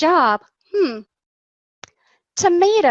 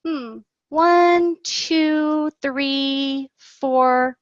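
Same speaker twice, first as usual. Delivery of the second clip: counting aloud; much slower than usual. Shown as a demonstration. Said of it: "held up some pencils and said".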